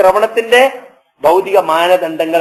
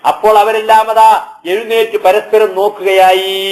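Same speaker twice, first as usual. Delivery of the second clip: raised, sustained preacher's intoning; Quran recitation; 2 semitones higher than usual. Acted. Preacher recites the second trumpet blast to listeners, intoned.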